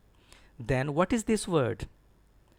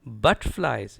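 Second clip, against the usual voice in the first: butterflies with a firm BUT and falling end; firm model BUT-tflies; stress on BUT; 3 semitones lower, 4 dB louder than usual. Shown as a demonstration. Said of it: "Stress is on B U T".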